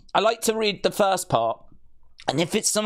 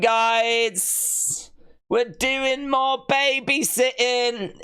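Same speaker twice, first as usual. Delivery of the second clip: mock exasperated; 8 semitones higher, much slower than usual. Mock announcing babysitting duty.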